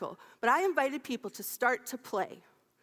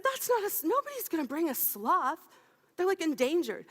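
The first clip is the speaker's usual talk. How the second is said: high, excited disbelief, pitched well up; incredulous protest; 4 semitones higher than usual. Retold or imitated. Telling friends the sloth can't be real, high incredulous protest. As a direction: scoff that nobody would bring a sloth. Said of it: "And I said".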